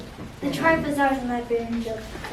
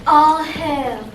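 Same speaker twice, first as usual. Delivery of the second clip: gleeful witch; 3 semitones higher, 9 dB louder than usual. Acted. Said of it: "moaned with glee".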